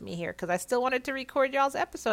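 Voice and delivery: talking through clenched teeth. Real, not acted. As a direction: speak with teeth clenched from a sore cheek. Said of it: "hear me talking with clenched teeth".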